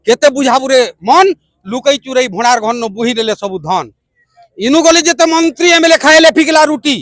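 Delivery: measured, rhythmic verse; protest poem recitation. Acted. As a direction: recite with a steady beat, rallying your people. (ଛନ୍ଦରେ କବିତା ଆବୃତ୍ତି)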